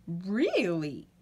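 hushed unvoiced aside; whisper. Wordy Birdie insisting her cousin is a penguin, whispered. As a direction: whisper it like a secret.

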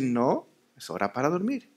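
soft, firm bedtime no; steady and kind, never angry; firm but loving. Shown as a demonstration. Parent telling a crying baby at night it is bedtime, firm yet loving. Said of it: "con firmeza, pero en amor".

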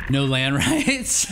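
slow, amused, laughing through it; laughing disbelief. Real, not acted.

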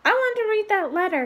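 put-on a spoiled boy insisting loudly; loud demand. A narrator's reading. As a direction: son loudly demanding the letter from his father. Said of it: "he said loudly".

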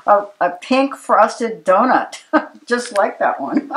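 high and bright, giggling through the words; laughing tease. Real, not acted. Host laughing while teasing the guest about his pink donut. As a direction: tease him, laughing as you point it out.

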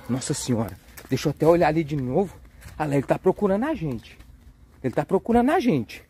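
low, hushed and wary; furtive lookout. Pretend. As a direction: speak softly, as if hiding from a monster. Checking on the searching dinosaur. (voz baixa e cautelosa de quem se esconde)

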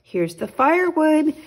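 high, loud happy shout; excited shout. Acted. Boy shouting to his mother about the firewood. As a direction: call out the firewood proudly. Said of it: "shouted Jack".

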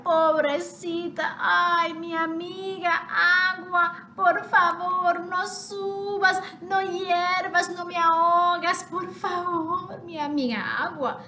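a touch of sing-song begging; pleading chick. Acted. Half chick in the pot begs the water, mildly pleading.

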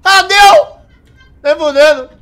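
loud disbelieving cry; surprised shout. Real, not acted. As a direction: blurt it out in disbelief. Password unexpectedly works.

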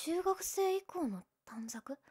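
slow astonished whisper. Acted. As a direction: whisper it in disbelief. Whispered surprise.

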